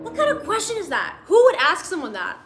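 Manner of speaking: high, incredulous outburst; appalled disbelief. Real, not acted. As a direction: demand who would ever ask such a thing. Reacting to an absurd question.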